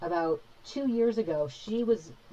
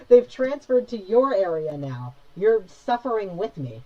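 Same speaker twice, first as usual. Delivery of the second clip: louder, slow, dramatic lament; louder, slow mock-tragic complaint about pests; loud mock despair; 4 semitones higher, 9 dB louder, slower than usual. Real, not acted. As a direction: ham up the misery, drawn out. Complaining about fruit flies.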